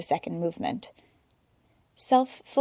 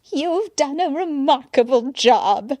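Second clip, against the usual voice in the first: appreciative; 6 semitones higher, 4 dB louder, slower than usual. A narrator's reading. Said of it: "she said appreciatively".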